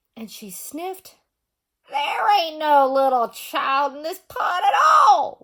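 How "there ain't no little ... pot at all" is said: loud, snarled growl in a witch voice. Reading a story aloud, the swamp witch sniffs the pot: growling witch. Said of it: "growled the witch".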